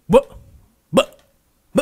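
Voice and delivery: short barked buh bursts; dog bark imitation. Shown as a demonstration. Teacher imitates a barking dog for scratch practice, barked bursts. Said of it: "imitar un poco lo que hacen los perritos al ladrar".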